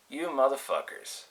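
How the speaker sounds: slow, seething curse, held in; acted simmering fury, not shouted; retold boiling anger. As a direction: draw each insult out slowly. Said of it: "and I was boiling".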